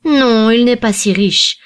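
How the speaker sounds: charitable intervention. A narrator's reading. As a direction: step in charitably, drawing the words out. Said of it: "intervint charitablement le second jeune homme".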